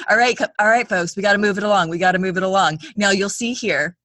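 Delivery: brisk tour guide hurrying folks. Pretend. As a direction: herd the group along. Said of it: "and he's like".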